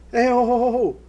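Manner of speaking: high, loud retold halt; calling out. Stage manager halting the producer, calling out. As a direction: call out quickly to stop them. Stops producer walking past the car.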